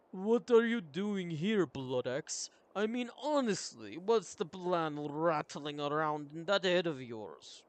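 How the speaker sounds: loud, drawn-out confrontational warrior voice; challenging warrior. Acted. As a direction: challenge your companion, loud and slow. Plays a game character.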